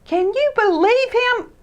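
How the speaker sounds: high, loud indignant exclaim; disgusted. Acted. Christopher disgusted at Ted to Freddie. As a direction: scoff in disgust. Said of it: "exclaimed Christopher in disgust".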